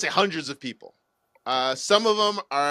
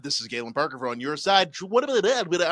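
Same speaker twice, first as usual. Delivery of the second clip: news anchor voice. Retold or imitated. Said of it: "generally accepted voice tone".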